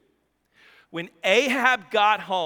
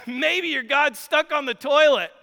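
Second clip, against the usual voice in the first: mocking; 5 semitones higher, 4 dB louder than usual. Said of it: "Elijah starts mocking them".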